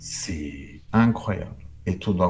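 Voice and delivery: souffle sans voix, très bas; le dire tout bas, émerveillé; chuchoté. Real, not acted. Confidence chuchotée. (murmure émerveillé sans voix)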